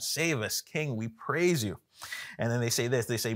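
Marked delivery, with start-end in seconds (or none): 0.0-1.8 higher-pitched, restrained imitation of crying out; retold crying out. Preacher voicing the crowd praising their king, mild crying out. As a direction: call out in praise, without shouting. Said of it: "they're crying out".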